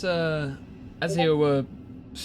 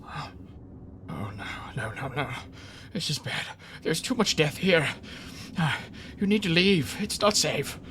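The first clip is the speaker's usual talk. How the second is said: frightened mouse voice; 5 semitones higher than usual. Acted.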